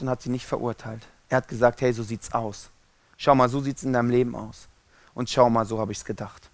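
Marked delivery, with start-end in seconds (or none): 1.8-6.5 lightly voiced calm guide, pitched low; non-judging explanation. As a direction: show them kindly, in a lower voice. Jesus voiced as explaining, not judging. (ruhig erklärend, mit tiefer Stimme)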